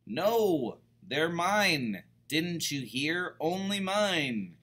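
high, loud greedy pug yelling; mock tantrum. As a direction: stamp your feet over your toys. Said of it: "Pig flipped his wig".

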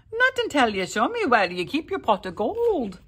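demanding. A narrator's reading. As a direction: insist on the gold. Jamie holding captive leprechaun.

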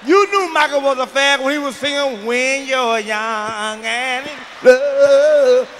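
loud outraged yell; outraged shout. Acted. Comic ranting at the crowd, loud and outraged. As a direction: blast it out in disbelief. Outraged rant about Michael.

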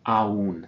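Aún split, stress on ú; syllables separated. Shown as a demonstration. Teacher repeats Aún, vowels apart. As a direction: say Aún in two beats. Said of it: "we're gonna separate".

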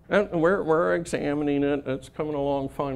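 lightly whiny evasive boss; a hint of a whiny excuse. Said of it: "an impression of him".

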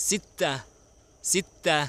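ซิตตะ very high, held break before ตะ; model pronunciation. Shown as a demonstration. Teacher shows children Arabic six, ซิตตะ pronounced high and clearly. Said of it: "ออกเสียงว่า".

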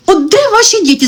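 "де ваші діти?" pitched high, falling hard on "де"; exasperated repeat. Real, not acted. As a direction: throw it back, pitch up, slam "де" down.

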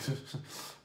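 quiet, voiceless chuckle; soft laugh under the breath. Real, not acted. Player amazed by his infinite counters, laughing quietly. Amused by his own combo.

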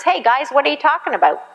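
high, fast call to the guys; Jesus calling out. Retold or imitated. Jesus calling out to arguing disciples, high and quick. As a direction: catch them mid-argument, quick and lifted. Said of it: "Jesus would catch them".

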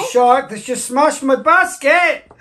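mock outrage. Playful mock drama with a child.

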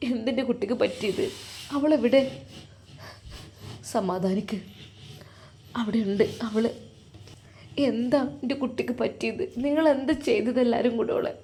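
a frightened father begging for answers; anguished father. Acted. Father pleading with the family at the hospital, softly anguished. Distraught father asks about daughter.

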